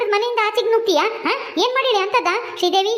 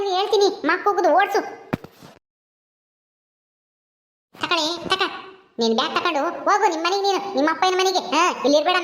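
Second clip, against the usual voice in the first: a lightly lowered voice for a harsh mother-in-law, ordering the bride out; scolding mother-in-law; 2 semitones lower than usual. Acted. Mother-in-law orders her son's wife to leave, stern and dismissive.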